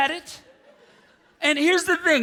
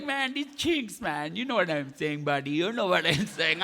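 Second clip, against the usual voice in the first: put-on Indian accent; 5 semitones lower than usual. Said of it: "he's, like, saying it to me".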